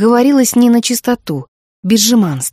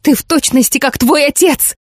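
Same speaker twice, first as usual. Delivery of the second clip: a touch of tearful reproach, pitched higher; trembling lip; 5 semitones higher than usual. Acted. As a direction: accuse her with a quivering lip. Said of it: "Нижняя губа Миртл задрожала". (мать упрекает дочь, с дрожью в голосе)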